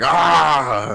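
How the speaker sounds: mock loud 'ah' outburst; imitated dog outburst. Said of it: "those little, like, outbursts".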